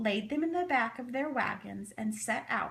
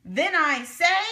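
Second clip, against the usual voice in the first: rousing finish; 5 semitones higher, 9 dB louder than usual. A narrator's reading. Speaker finishing rallying speech.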